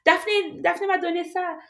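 light, proud imitation of mom; imitating mom. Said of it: "she's like".

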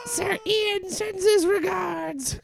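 slow, high, sinister send-off; sinister farewell. Acted. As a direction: savor the farewell. Villainous farewell line.

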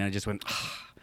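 soft deflated sigh; small sigh. Retold or imitated. Student left next in line after questions close, sighing. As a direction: let out a quiet letdown sigh. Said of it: "right, kind of a sigh".

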